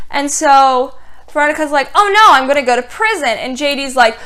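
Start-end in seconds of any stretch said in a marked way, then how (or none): 1.9-3.3 mock panic. Veronica panicking after the accident.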